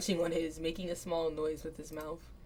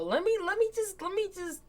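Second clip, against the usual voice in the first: fired-up urge; 12 semitones higher, 4 dB louder than usual. Acted. Fired up, wanting to fight.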